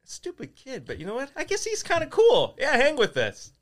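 put-on bully kid voice. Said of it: "They're like".

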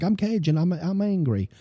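a hint of Italian-sounding anger; mock angry Cajun parent. Parents who yell at their kid, mock angry Cajun. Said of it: "did I just sound Italian?".

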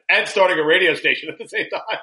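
laughing. Real, not acted. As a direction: laugh through the end of the line. Joking about parenting while starting station.

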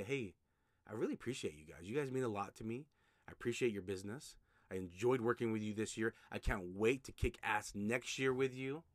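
mean every word, gently; sincere thanks. Shown as a demonstration. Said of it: "You talk like that".

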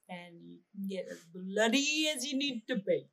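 a hint of an Indian lilt; Indian accent. Real, not acted. Friend telling friend about Halloween month, slight Indian accent. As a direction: slip lightly into an Indian accent. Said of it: "Did you say that in an Indian accent?".

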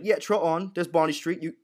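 lightly acted gangster brush-off; Alfie. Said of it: "Alfie basically shows him the door".

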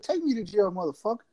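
retold mad challenge. Daring the trooper to make the arrest, mad. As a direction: re-enact mouthing off without raising volume. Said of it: "that's when I got mad".

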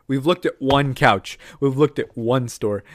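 slow deliberate stress on looked; slow, firm. Retold or imitated. Arguing in his head with the girlfriend, slow and firm. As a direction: spell it out slowly. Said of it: "in my head, I'm like".

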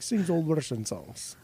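slow, mock Russian accent, broken English; slow, halting Russian accent on "Sings old Russian songs". Shown as a demonstration. Imitating a Russian singer who barely speaks English, slow Russian accent. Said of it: "put on your, like, your best Russian accent".

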